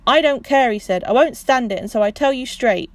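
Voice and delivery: loud, angry refusal. Acted. Proud husband refusing charity, loud and angry. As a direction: put your foot down hard. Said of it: "loud and rather angry".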